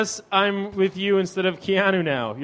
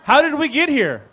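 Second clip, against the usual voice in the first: high, loud dramatic heroine line; Sandra Bullock; 9 semitones higher, 5 dB louder than usual. Acted. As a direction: play a lightly voiced action heroine. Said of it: "I'll play the role of Sandra Bullock".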